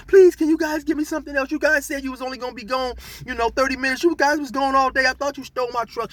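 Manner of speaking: imitating a frantic begging woman; begging lady. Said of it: "She's screaming and hollering".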